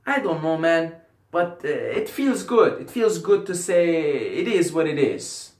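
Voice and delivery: badly faked Irish accent; attempted Irish accent. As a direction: try an Irish accent and miss. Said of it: "I don't know how to do an Irish accent".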